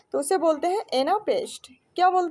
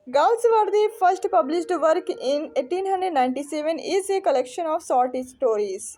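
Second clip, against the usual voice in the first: slow, deliberate question read-out; measured classroom reading; reading aloud; much slower than usual. Acted. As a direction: read it out carefully for students. Reads out exam question.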